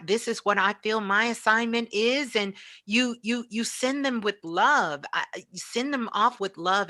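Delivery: ordinary talk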